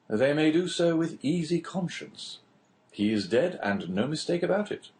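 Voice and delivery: a hint of the chatty official; lightly voiced prison inspector. Inspector telling the Englishman a prison tale, lightly voiced.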